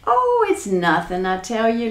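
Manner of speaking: amused brush-off, only lightly laughed; a touch of laughter, starting on a drawn "Oh"; laughing. Acted. Jack dismisses the giant's question, mildly laughing. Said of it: "laughed Jack".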